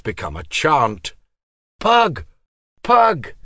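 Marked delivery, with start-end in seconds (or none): 1.8-3.3 loud high call across distance. Acted. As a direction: shout his name to summon. Students calling his name.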